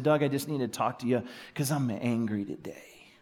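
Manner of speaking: a breathy whisper, voiceless, hushed and heavy; whispered confession. Retold or imitated. Pastor retelling a grieving father's call, whispered. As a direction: whisper it like a secret you're ashamed of. Angry friend's words retold softly.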